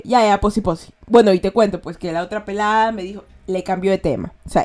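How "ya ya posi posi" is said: uninterested dismissal. Shown as a demonstration. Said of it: "no le importa un diablo".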